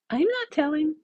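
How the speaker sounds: high, sing-song, giggling; giggly tease. Acted. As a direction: coyly keep the secret. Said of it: "She giggles again".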